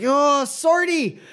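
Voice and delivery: put-on high, drawn-out drunken wail; dismayed drunk. Drunk watching his sword fly into the canal, high slow wail. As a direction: mourn it like a lost pet.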